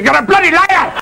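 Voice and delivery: put-on high drunken Scottish yell; drunken Scottish shout. Drunk Scotsman yelling at a scarecrow, high Scottish shout.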